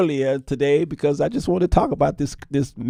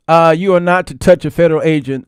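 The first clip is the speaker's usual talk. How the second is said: mock stern; 7 dB louder, faster than usual. Mocking officials, fast.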